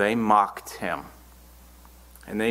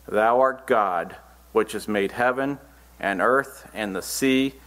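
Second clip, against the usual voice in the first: measured, deliberate Bible reading; scripture reading. Acted. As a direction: read the verse out to a congregation. Reads scripture aloud.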